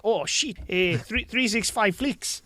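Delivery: badly faked New Zealand accent, imitating a podcaster. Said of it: "I can't do the accent".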